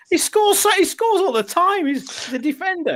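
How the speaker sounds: words squeezed out high through laughter; giggly disbelief; laughing while talking. Real, not acted. Laughing at defender who scores.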